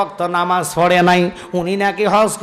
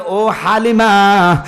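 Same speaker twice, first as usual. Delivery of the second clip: calling out; much slower than usual. Acted. Madman calls out to Halima.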